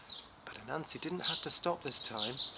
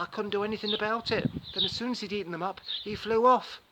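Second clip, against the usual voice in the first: higher, louder, building breathless lie; excited tall tale; 6 semitones higher, 6 dB louder than usual. Acted. Anansi spins the big bird lie, excited and loud. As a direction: pile on the big-bird story faster and faster.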